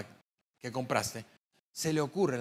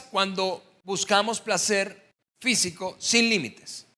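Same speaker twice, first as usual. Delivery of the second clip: louder and slow, weight on "sin límites"; slow emphatic answer; 3 semitones higher, 4 dB louder, slower than usual. Acted. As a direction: spell out the answer deliberately. Preacher answers his own question. (respuesta lenta y enfática)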